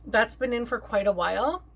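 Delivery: talking with food in mouth; mouth full. Real, not acted. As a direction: say it round a mouthful. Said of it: "Sorry, I have something in my mouth".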